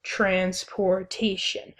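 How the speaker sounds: transportation in separated syllables, trans-por-ta-tion, first and third stressed; broken into syllables. Shown as a demonstration. Teacher showing class how syllables break down, transportation syllable by syllable. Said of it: "the way the syllables break down".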